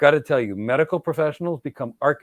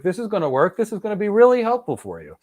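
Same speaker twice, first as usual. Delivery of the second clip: mock politician; 6 semitones higher, 4 dB louder than usual. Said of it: "Watch a politician speak".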